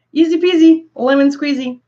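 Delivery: high and loud, then whispered on lemon squeezy; singsong rhyme. Real, not acted. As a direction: chirp the rhyme, drop the end to a whisper. Playful rhyme after deciding breakfast.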